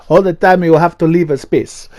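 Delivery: put-on a half-hearted Spanish accent that drifts into Italian; attempted Spanish accent. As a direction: put on a quick, clumsy Spanish accent that comes out sounding Italian. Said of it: "never gonna try and do an accent again".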